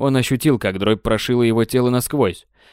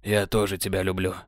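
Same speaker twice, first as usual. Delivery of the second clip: laughing softly; 4 semitones lower, 6 dB quieter than usual. Acted. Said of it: "смеясь".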